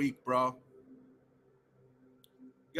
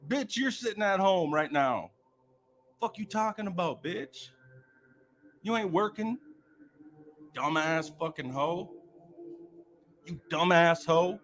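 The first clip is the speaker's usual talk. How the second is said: retold comeback; 4 semitones higher than usual. Retelling his comeback to the caller, higher and heated. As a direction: replay the insult you threw back, heated. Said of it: "I'm like".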